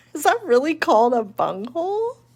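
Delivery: very high, swooping giggle through the words. Shading a drawing and noticing a funny word: laughing while talking. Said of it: "I can't say that without laughing".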